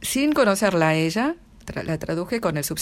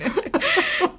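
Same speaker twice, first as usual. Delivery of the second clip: high burst of laughter. Real, not acted. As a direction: let out a bright laugh. Laughing at her own remark.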